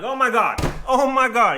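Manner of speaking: clutching the seat in fear; mock panic in the back seat; scared oh my god. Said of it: "I'm like".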